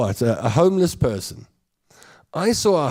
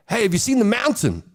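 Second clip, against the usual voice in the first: Joburg bro; 8 semitones higher, faster than usual. Retold or imitated. Comic imitating how a Joburger asks about the mountain. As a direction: shout it like a Joburg oke. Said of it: "we'd be like".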